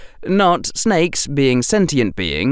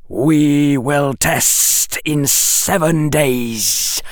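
slow, higher voice of a secretive snake; hissing snake; 6 semitones higher, slower than usual. A narrator's reading. Snake hissing a secret code to Harry, slow and higher. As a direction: lay it out slowly like a serpent.

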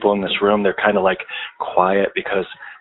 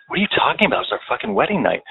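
retold offended protest; 3 semitones higher, faster than usual. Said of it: "I was offended".

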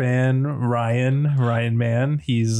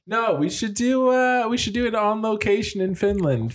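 much higher, squeaky voice; 9 semitones higher than usual. Real, not acted. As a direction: squeak it out way up high. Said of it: "What the fuck's wrong with you?".

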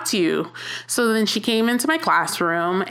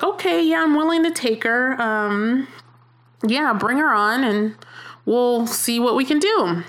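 chipper agreeable self; 4 semitones higher than usual. Retold or imitated. Eager yes to admin's request.

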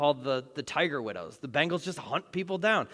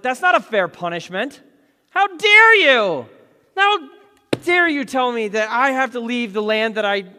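much higher and louder, peaking on "How dare you"; indignant outburst; 6 semitones higher, 10 dB louder than usual. Acted. Cain yelling at God that his punishment is unfair. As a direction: rail at God, outraged at the unfairness.

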